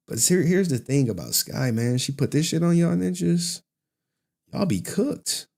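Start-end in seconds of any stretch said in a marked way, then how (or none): 4.5-5.5 teasing warning. Shown as a demonstration. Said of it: "repeated higher".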